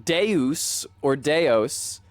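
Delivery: "Deus or Deos" slowly as DAY-oos, DAY-ohs; Latin pronunciation. Shown as a demonstration. Comparing languages for God, "Deus or Deos" as Latin. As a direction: draw out both Latin variants, "Deus or Deos". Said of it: "and Latin is".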